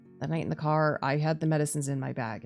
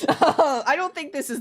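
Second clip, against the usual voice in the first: laughing; 9 semitones higher, 6 dB louder, slower than usual. Real, not acted. Laughing at the scene.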